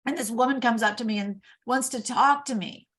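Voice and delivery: mock whine. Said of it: "I was whining".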